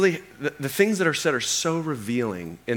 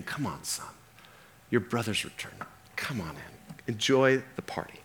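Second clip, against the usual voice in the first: pleading father; 6 dB quieter than usual. Acted. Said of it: "This father starts pleading".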